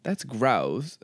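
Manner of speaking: put-on experimenting with a Southern accent. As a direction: another tentative Southern pronunciation. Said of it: "how do you say gross?".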